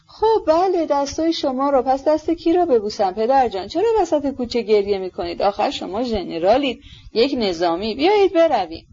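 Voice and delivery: pleading son. Acted. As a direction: urge your weeping father onward.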